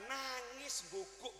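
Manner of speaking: slow mock sob, like an old man weeping; a preacher mimicking someone crying; imitated sobbing. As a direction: act out the crying as you say it. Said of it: "Nangis, nangis gini".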